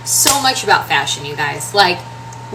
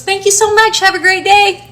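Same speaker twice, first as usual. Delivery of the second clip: put-on Southern old lady voice; 12 semitones higher, 6 dB louder than usual. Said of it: "Super Southern accent".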